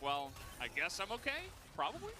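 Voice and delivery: lightly voiced doubtful player, rising high at the end; unsure player. Caster voicing a passive player's thoughts, lightly imitated uncertainty. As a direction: let the last word lift into a question. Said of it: "so he's like".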